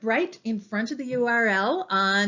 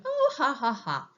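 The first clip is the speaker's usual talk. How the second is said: mock laugh; 3 semitones higher than usual. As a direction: imitate someone gloating at their own prank. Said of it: "someone at the other end was going".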